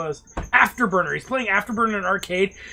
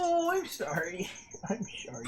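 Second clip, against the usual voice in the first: very soft, cooing apology; hushed apology; 3 semitones higher, 12 dB quieter, slower than usual. Real, not acted. Apologising after being told off for loudness, hushed and cooing. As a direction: shrink the voice to soothe.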